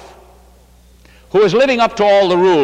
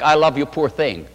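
pitying; 4 semitones lower than usual. Retold or imitated. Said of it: "that sounds like".

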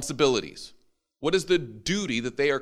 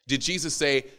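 normal talking voice

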